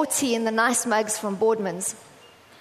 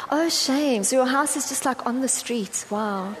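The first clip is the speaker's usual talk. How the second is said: mock pity. Snobbish neighbour to someone without an estate, mock pity. Mocks snobbish judgment of others' homes.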